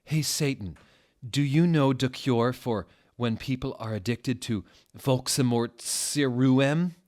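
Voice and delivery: high, coy flirting lilt; flirty. Acted. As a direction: bat your eyelashes at Satan. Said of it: "I said in a flirty voice".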